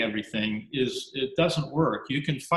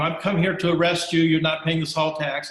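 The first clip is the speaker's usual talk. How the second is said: stern British officer; 5 semitones higher, 5 dB louder than usual. Acted. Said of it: "the guy's already".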